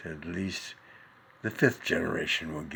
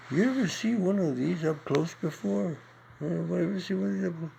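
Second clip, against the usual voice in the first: much higher and louder, barking it out; punchline shout; 11 semitones higher, 4 dB louder than usual. Acted. Comedian hurling the final punchline at the crowd. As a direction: hit the audience hard with the punchline.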